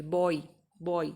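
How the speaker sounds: बॉय drawn out as 'bo-ee'; slow repeated बॉय with a clear glide; 'oi' sound demo. Shown as a demonstration. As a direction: stretch बॉय slowly to show the oi. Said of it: "उसके बाद ओई की sound आ रही है".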